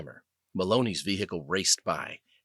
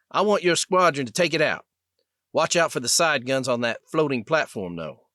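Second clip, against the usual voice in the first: South Alabama drawl; 4 semitones higher than usual. Acted. Lieutenant answering the sergeant over the comm in a mild South Alabama drawl. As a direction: give it a hint of a Southern Alabama naval drawl. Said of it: "in his naval South Alabama drawl".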